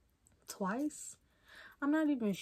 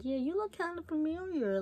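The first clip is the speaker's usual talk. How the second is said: higher, lilting conversational opener; feigned recognition; 7 semitones higher than usual. Retold or imitated. Texting a stranger to start a conversation, feigned recognition. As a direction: coyly pretend to recognize someone.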